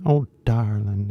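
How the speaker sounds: slow, drawled Southern belle; lightly put-on old-movie Southern accent. Shown as a demonstration. Teacher imitating Gone with the Wind, Southern belle. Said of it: "a Southern belle kinda thing".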